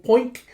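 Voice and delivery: high, loud little "poink"; a springy sound effect for a small jump; cartoon hop noise.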